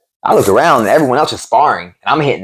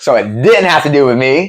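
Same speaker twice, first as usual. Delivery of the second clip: laughing through the words, higher; 5 semitones higher than usual. Real, not acted. Fighter laughing at his own misread of the gym. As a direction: chuckle it out. Realizing the yelling wasn't about him.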